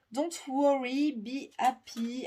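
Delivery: English with a thick French accent, slow and bright; self-mocking French accent on English words; bad French accent in English. Shown as a demonstration. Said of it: "avec mon accent terrible en anglais".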